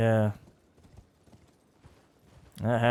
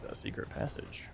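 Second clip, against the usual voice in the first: whisper; 12 dB quieter than usual. Real, not acted. Whispered discovery in a game.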